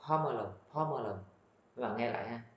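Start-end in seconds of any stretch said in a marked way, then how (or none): 0.1-1.2 "pomelo" as "PO-mo-lo", round first o; corrected pronunciation. Shown as a demonstration. Teacher repeats her correction for learners, round-o pronunciation. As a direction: give "pomelo" an o where the recording has a. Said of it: "đọc lớn quá".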